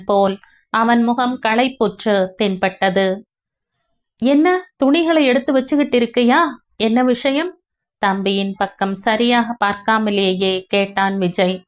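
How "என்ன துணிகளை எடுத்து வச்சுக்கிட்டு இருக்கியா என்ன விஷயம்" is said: lightly higher, quick elder brother; brisk curious elder brother; Vijay voiced. Elder brother questions his packing younger brother, brisk and curious.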